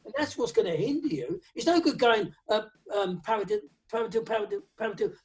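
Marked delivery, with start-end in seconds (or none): 3.2-5.1 quick, fluent paradiddles said aloud; smooth sung-out drum rudiment; rattled-off rudiment. Shown as a demonstration. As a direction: rattle off the sticking at speed. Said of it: "struggling there".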